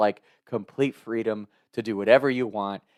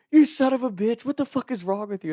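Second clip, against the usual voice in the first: Beef; 13 semitones higher than usual. Retold or imitated. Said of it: "how much he's cussing me out".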